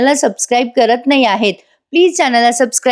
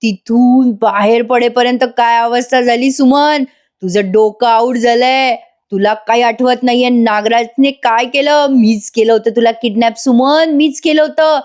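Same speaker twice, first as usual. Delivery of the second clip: hammed-up villainous glee; gleeful mock confession. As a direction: own up with teasing, stretched words. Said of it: "उड्या मारून म्हणतो".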